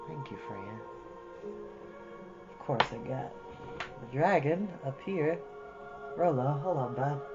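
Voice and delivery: usual speaking voice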